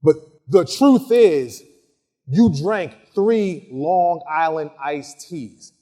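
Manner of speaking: slow, loud, pointed accusation; slow accusing statement with a hard start; accusatory. Shown as a demonstration. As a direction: spell it out slowly, like a charge. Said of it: "Very, very different body language".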